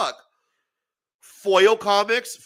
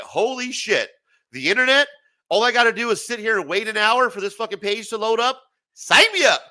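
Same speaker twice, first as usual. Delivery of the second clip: hammed-up thrill at dial-up, rising higher; mock excitement; 4 semitones higher, 4 dB louder than usual. Young gamer mocking his hype over dial-up, excited.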